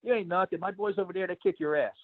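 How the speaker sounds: a hint of a cocky local picking a fight; local guy taunting. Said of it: "so then the guy's like".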